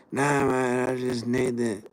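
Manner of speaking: lightly put-on junkie turning down water; mock junkie refusing water. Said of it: "and they go".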